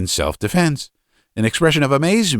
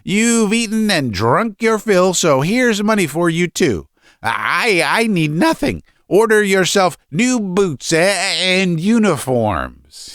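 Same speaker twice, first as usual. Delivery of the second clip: high-pitched bitter rage; father raging at his ungrateful family; ferocious; 10 semitones higher than usual. A narrator's reading. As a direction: spit out the grievance, pitched high and stumbling. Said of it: "growing more and more ferocious".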